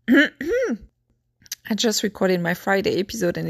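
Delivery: slightly hoarse, strained voice. Real, not acted. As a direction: talk through a tired, hoarse throat. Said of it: "it seems I'm losing my voice a little".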